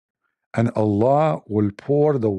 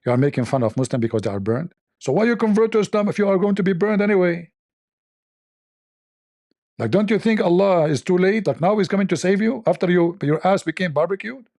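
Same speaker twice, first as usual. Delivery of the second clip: high, mocking scold of his own voice; rebuking himself; 7 semitones higher than usual. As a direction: needle himself in a higher, taunting scold. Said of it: "to rebuke myself".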